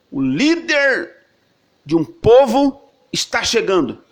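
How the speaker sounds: slow, high proclaiming call of an arrival; herald's announcement. Retold or imitated. Preacher voicing the crowd, announcing the leader's arrival, proclaiming. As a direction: announce him like a herald in the street.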